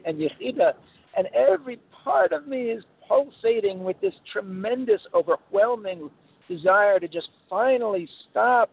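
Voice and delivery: imitating a tearful prayer to quit; mock crying plea. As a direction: beg heaven in hammed-up anguish. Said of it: "like, crying".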